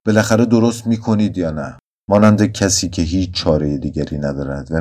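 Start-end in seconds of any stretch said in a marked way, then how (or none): 0.1-1.8 higher, louder demand through gritted teeth; through clenched teeth. Acted. Doctor demanding the nurse make the solution, through gritted teeth. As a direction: force the question past clenched teeth. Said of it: "با دندانهای به هم فشرده پرسیدم".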